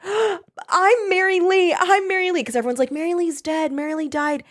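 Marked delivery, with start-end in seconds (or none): 0.0-2.4 high, drawn-out mock wail; hammed-up panic, pitched way up; freaking out. Girl insisting who she is to everyone, freaking out. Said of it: "she's freaking out". 2.9-4.4 higher-pitched imitation of the crowd; mock townsfolk chorus. Everyone telling of Mary Lee's death, imitated lightly. Everyone's line voiced against her wail.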